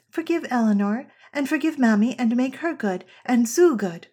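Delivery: a hint of an eager little girl; child's version. Small daughter adding everyone to her prayer, lightly childlike. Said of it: "she will say".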